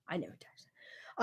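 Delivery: hushed confiding whisper; whispered aside. Real, not acted. Whispering about Beyond Meat to viewers, a confiding aside. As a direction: drop to a breathy secret.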